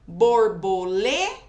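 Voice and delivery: "Borboleta" loud, LE rising and held before TA; syllable demo of "Borboleta" with a big LE; stress on LE. Shown as a demonstration. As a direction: punch the LE in "Borboleta", then a separate weak TA. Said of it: "É o lê".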